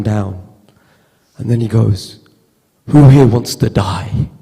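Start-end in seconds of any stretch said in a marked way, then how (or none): 2.9-4.3 a slow, louder, weighty question; solemn pastor. Retold or imitated. Pastor asks the calmed crowd who wants to die, slow and loud. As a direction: drop it on the room like a preacher.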